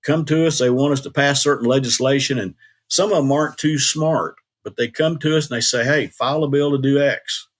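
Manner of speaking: put-on Oklahoma country accent. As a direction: do a good old Okie, lightly imitated country accent. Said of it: "country kind of accent".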